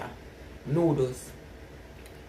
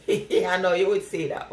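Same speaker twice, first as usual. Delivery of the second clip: laughing. Real, not acted. Laughing back at Warren's comment.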